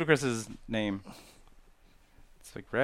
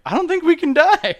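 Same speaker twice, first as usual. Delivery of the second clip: very high, loud mock amazement; hammed-up high-pitched outburst; retold wild claim; 10 dB louder than usual. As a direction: exclaim it like a crazy revelation. Acted wild claim in retold scene.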